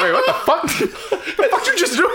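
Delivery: mock surprise. Mock player confused.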